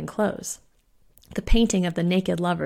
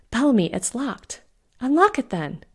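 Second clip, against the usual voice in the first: higher-pitched, pressing urgency; urgent alarm; 5 semitones higher, 3 dB louder than usual. A narrator's reading. Trapped companions at the locked door, urgent.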